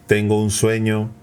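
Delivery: same pitch throughout, no rise or fall; flat monotone. Shown as a demonstration. Coach showing the flat monotone way. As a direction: say it on one level note. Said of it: "no, no, no".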